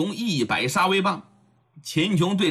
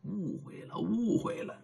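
much softer, soothing plea; coaxing; 3 semitones higher, 12 dB quieter than usual. Acted. Luo Yi softly placating his angry wife. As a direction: hush her with a soft placating murmur. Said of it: "赶紧劝慰夫人".

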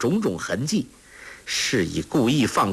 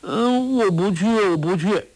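put-on high childish protest, much higher; crying out; 10 semitones higher than usual. A narrator's reading. Simple girl refusing to be taken away, high childish outcry. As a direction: wail your refusal like a scared child. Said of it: "傻姑叫道".

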